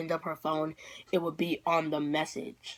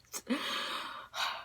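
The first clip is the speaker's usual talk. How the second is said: heavy sigh; 11 dB quieter than usual. Retold or imitated. Resigned sigh after retold wail.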